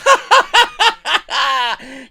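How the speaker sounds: loud, high forced cackle; hammed-up mocking guffaw; mocking laugh. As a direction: imitate someone laughing in your face. Mimics bosses laughing at wrestlers.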